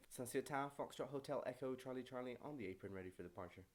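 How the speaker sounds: lightly posh pilot on the radio. Shown as a demonstration. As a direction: deliver a practised aviation radio call, tailing off. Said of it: "I sound very posh when I talk on the radio".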